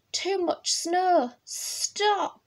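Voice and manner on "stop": high-pitched stop. A narrator's reading. Child halting Bear in story.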